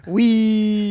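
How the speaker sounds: loud, high laughing wee; gleeful wee. Acted. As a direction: shout wee while laughing. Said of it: "Me too".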